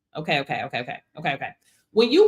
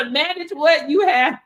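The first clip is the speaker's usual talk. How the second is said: ordinary talk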